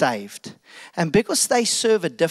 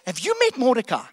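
spring the trap with mock cheer; king crowing with glee; gleeful king. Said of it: "The king goes".

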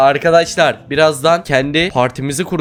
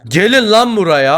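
raised, higher summoning shout; bossy calling; 5 semitones higher, 4 dB louder than usual. Acted. Gang boss calling his players over, bossy shout.

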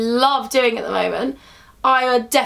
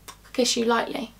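soft kiss; 3 semitones lower, 6 dB quieter, slower than usual. Real, not acted. Blowing a kiss to camera.

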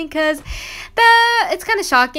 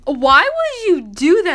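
higher, louder imitated outburst of disbelief; the sister can't believe the trade, a bit higher and louder; shocked disbelief; 5 semitones higher, 4 dB louder than usual. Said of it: "reaction was shocked".

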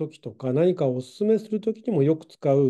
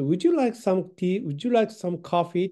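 slow polite offer; 3 semitones higher, slower than usual. Shown as a demonstration. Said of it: "おすすめですね".

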